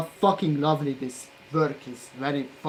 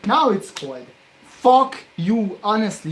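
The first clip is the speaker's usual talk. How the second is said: loud and higher, real frustration; shouted in frustration; angry outburst; 6 semitones higher, 10 dB louder than usual. Real, not acted. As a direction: snap at the cooled solder. Solder cooled again, snaps.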